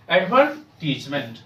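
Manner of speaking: "एडवर्टीजमेंट" said with stress on "वर" and a short "tiz"; correct advertisement. Shown as a demonstration. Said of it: "मैं पढ़ता हूँ".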